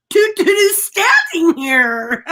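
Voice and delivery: high, slow, laughing imitation; laughing mock disbelief. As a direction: act it out through laughter. Acts oblivious response, laughing.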